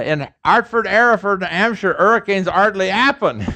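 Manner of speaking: put-on Cockney accent with every H dropped; Liza Doolittle. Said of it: "they're like Liza Doolittle".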